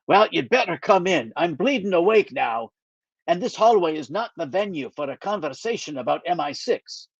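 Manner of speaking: put-on lightly Scottish older friend, dry; a mild Scottish brogue, wry; gentle Scottish lilt, teasing; Scottish accent. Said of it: "he still has a Scottish accent".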